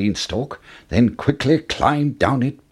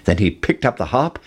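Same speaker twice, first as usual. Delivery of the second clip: ordinary delivery, nothing marked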